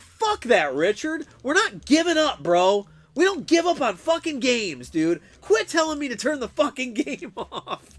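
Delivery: high, loud mock tirade; retold raging. Streamer re-enacts snapping at his friend, raging tirade. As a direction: rant at a friend, cracking up at the end. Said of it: "how bad I was raging".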